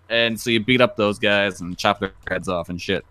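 usual speaking voice

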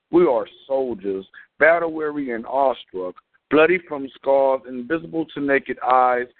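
rhythmic slam poetry delivery; spoken word poem. Acted. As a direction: perform it like an open mic poet. Performs a spoken word piece.

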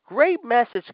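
high mocking "great message"; sarcastic praise. Real, not acted. Ranting fan mocks Vince's booking with sarcastic praise. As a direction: sneer it like fake praise. Sarcastic rant at WWE bookers.

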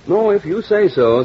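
henpecked groom. Pretend. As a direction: play the browbeaten husband for a joke. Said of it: "said the henpecked groom".

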